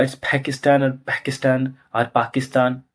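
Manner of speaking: mock accent variants. Shown as a demonstration. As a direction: run through the variants of Pakistan. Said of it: "sir जो ना accent है".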